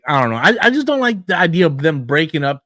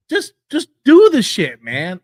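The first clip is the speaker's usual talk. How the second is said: exasperated. Real, not acted. Frustrated outburst at promoter.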